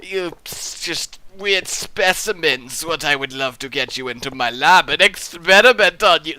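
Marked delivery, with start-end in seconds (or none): 2.8-6.4 a hint of a sinister scientist; mock mad scientist. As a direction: leer at the viewers. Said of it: "That just sounds like a very, very flamboyant".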